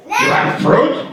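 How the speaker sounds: suddenly eager for fruit; high excited You have fruit?. Acted. Excited repeat.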